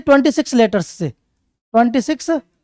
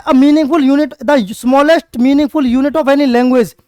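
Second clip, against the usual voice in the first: each word slow and spaced; teacher dictating slowly; slow dictation; much slower than usual. Shown as a demonstration. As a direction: dictate it so students can write. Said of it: "dictating definition".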